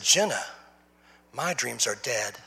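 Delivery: low, soft, slow and defeated; resigned quiet sadness; mild despair. Retold or imitated. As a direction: let the words sink, slowly. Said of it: "And I said".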